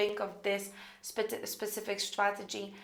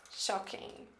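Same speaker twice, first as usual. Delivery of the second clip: whispered word; 2 semitones lower, 9 dB quieter than usual. Shown as a demonstration. Savoring the word in draft.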